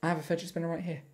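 hiccuping and tipsy. Real, not acted. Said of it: "I've also got drunk hiccups now".

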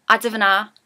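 I divna, Geordie for I don't know. Shown as a demonstration. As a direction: say divna as div-na, broad Geordie. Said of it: "would probably even make it more slang than that".

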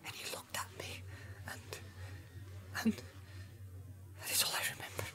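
halting whisper with long pauses; stammering. A narrator's reading. Hobbit confessing what frightened him, stammering whisper. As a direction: falter through it, barely audible and afraid. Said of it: "stammered Pippin".

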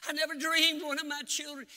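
imitating a tearful outburst; retold crying. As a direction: act out a father's anguished crying on the phone. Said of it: "he called me crying".

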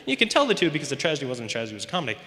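hurried, carrying straight on after a crack; as if nothing happened. Acted. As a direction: rush past the slip in a normal voice. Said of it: "continue as if nothing happened".

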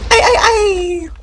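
high laughing yell; laughing shout. Real, not acted. Shouting while laughing in panic.

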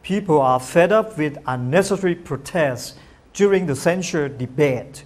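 very slow, word by word, with "up" stressed; slow example reading. Shown as a demonstration. Teacher reading an example sentence to viewers, very slow and clear. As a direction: read the model sentence slowly so viewers can follow. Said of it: "แต่ดูรูปประโยคดีกว่าครับ".

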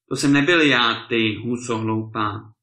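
loud, angry outburst; exasperated husband's shout; furious cry. A narrator's reading. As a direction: burst out angrily at your wife. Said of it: "vykřikl pán vztekle".

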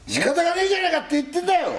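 very high, fast, overdone Tokyo dialect; hammed-up old Tokyo retort; forced Edokko accent. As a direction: push the Edokko speech until it sounds fake. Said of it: "でもちょっとわざとらしくなってるな".

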